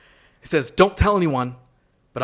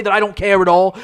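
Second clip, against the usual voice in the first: louder, pointed accusation; mock indignant peak; 4 semitones higher, 5 dB louder than usual. Guest confronts the host in mock hurt. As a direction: push the hurt, a touch louder.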